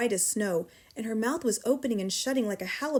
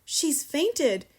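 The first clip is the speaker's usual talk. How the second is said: high-pitched alarm; crying out; 5 semitones higher, 3 dB louder than usual. A narrator's reading. Teacher kneeling beside fallen headmistress, crying out. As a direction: cry out the alarm. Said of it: "she cried".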